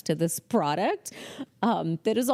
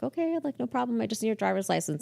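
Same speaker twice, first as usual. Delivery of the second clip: accommodating receptionist; 4 semitones higher, faster than usual. Retold or imitated. Receptionist answering a rude visitor, politely accommodating. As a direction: keep it sweetly helpful, pitched up.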